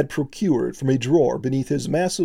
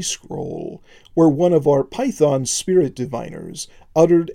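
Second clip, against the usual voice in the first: firm but oily voice. Acted. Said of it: "spoke in a firm but oily voice".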